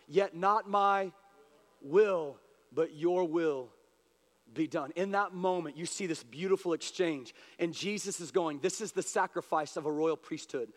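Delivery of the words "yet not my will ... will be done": slow, measured yielding, with pauses; divine surrender. Retold or imitated. Jesus answers from his divinity side, surrendering. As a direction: let the pitch settle down into acceptance. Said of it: "he says the divinity side of it".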